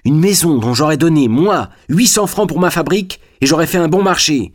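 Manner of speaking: lightly voiced grumbling factory owner; fat man's grievance. Fat man complains about the house.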